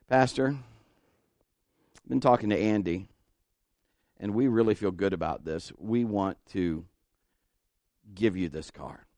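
solemnly bestow a gift, haltingly; mock-earnest offer. Friend earnestly offers pastor his car.

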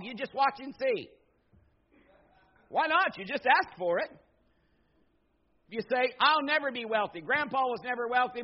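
preaching loud. Acted. Preacher mocks negative talk.

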